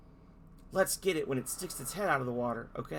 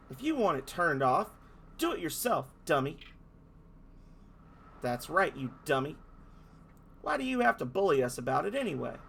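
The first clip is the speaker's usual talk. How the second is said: a touch higher, mocking kids' voice; taunting fairies; 3 semitones higher than usual. Fairies telling off the dolphin, mocking. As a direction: jeer like small bratty fairies.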